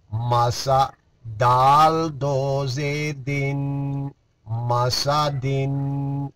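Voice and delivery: slow, measured Qaida spelling chant; syllable recitation. Shown as a demonstration. Teacher drilling Qaida syllables for students, measured chant. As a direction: spell each letter out for the pupils.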